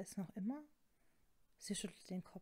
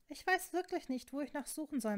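high-pitched, frustrated protest; worked-up, raised voice; exasperated protest; 6 semitones higher, 4 dB louder than usual. Acted. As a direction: throw up the task in frustration. Acted argument, exasperated.

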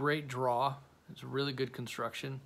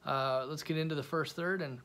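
talking around a cigar; cigar in mouth; 3 semitones higher than usual. Real, not acted. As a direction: lips closed on cigar. Seen 0: Cigar brought to lips at 1.3s, held in mouth onward.

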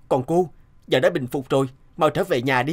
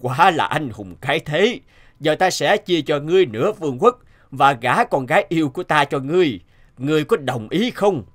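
a hint of a booming king, a bit louder; lightly voiced king; 3 dB louder than usual. King praises the hero and offers his daughter, regal. The king's voice.

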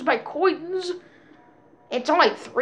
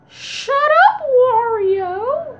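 annoyed yell; 10 semitones higher, 4 dB louder, much slower than usual. Real, not acted. Yelling at game character.

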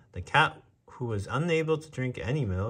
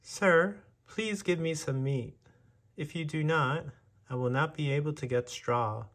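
high, pleading mouse voice; 6 semitones higher than usual. A narrator's reading. Mouse begs the butcher for meat, high and pleading. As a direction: beg the butcher like a small mouse.

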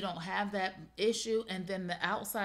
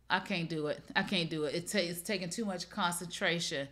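usual speaking voice

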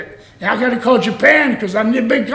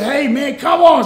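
raised, exasperated retold protest; mock-annoyed appeal, punching "come on"; getting mad; 6 semitones higher, 5 dB louder than usual. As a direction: push back at a stubborn friend, higher and louder. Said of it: "So I'm getting mad".

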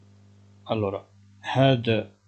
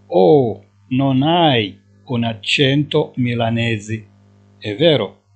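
each syllable drawn out, slowly; slow dictation; 4 dB louder, much slower than usual. Shown as a demonstration. Teacher to Moroccan students, slowly dictating Italian. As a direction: spell it out slowly for learners. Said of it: "teacher dictating driver line".

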